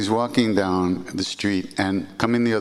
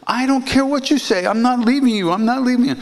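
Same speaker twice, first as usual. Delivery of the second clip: much higher and louder, adamant cry; stubborn refusal; 6 dB louder than usual. Retold or imitated. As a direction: dig in and refuse to go.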